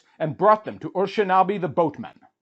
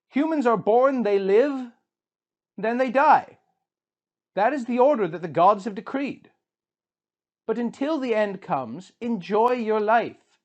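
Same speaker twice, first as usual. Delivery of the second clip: Shiduri the tavern keeper; 7 semitones higher than usual. A narrator's reading. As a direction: advise the grieving king to enjoy life.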